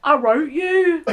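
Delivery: slow, drawn-out Bromley impression; Bromley accent. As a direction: imitate a dubbed film lover in Bromley. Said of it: "I think the Bromley one is".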